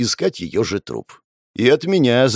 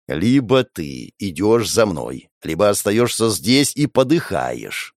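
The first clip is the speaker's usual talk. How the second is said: slow, cold and measured; said through teeth; slower than usual. Acted. Hero coldly forces the girl to choose her fate. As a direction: grind the words out slowly. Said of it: "процедил я".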